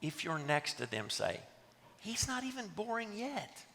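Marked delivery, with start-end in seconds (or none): 2.0-3.6 high, hushed pretend aside; confiding aside. Listener tipping off a neighbour whose phone rang, hushed aside. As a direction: slip it softly to the person beside you.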